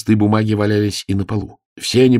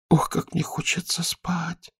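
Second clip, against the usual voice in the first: slow breathy-soft whisper, barely awake; sleepy whisper; 11 semitones higher, 6 dB quieter, slower than usual. Acted. Sleepy girl whispering to the aunt she can't wake up. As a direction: whisper it like you can't open your eyes.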